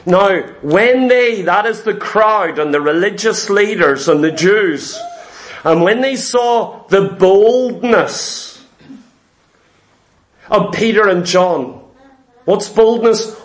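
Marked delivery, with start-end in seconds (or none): 0.0-1.4 slow scripture reading. Shown as a demonstration. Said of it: "listen to what it says here". 5.6-11.8 slow, deliberate reading from Acts with pauses; slow scripture reading. Shown as a demonstration. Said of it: "listen to what it says here".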